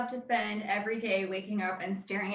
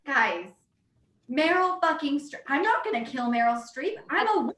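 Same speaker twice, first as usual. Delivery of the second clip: rising, higher voice in mock worship; fervent self-quote; 4 semitones higher than usual. Replaying her defense of Meryl Streep to Pete, higher and gushing. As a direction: build into a devoted fan's rapture. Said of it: "And I was like".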